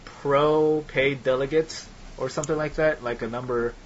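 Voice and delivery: choppy robotic connection audio; breaking up like a glitchy robot. Real, not acted. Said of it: "you sound like a crazy robot to me".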